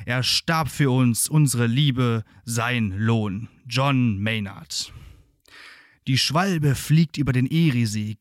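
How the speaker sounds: solemn, measured ballad reading; poem recitation. Acted.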